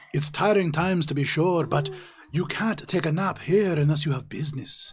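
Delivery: loud, firm dwarf scholar laying down rules; stern dwarf. Acted. Dwarf scholar telling sleepy Cheshire no napping, loud and stern. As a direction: tell them off but keep it polite. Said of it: "and says".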